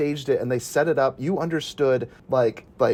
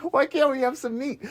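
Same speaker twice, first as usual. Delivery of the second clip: Boston orc voice; 9 semitones higher than usual. Retold or imitated. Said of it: "like the Boston one".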